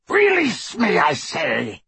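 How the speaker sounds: high, forceful rasped werewolf demand. A narrator's reading. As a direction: rasp it out urgently. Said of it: "rasped Greyback".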